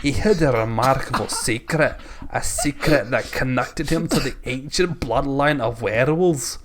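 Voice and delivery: hammed-up Scottish story reading; mock-Scottish narrator on the edge of laughing; Scottish accent. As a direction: put on a comic Scottish accent, amused. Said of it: "Now do it all in that accent".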